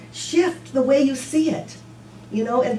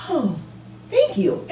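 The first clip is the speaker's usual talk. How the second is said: mock gratitude; 5 semitones higher, slower than usual. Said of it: "we don't just go".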